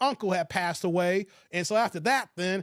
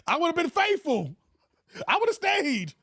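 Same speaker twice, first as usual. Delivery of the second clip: high-pitched mock pleading quote; T Orlando; 7 semitones higher than usual. Streamer mocking T Orlando's plea, high-pitched. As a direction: lightly mimic him, pitched up. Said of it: "T Orlando's like".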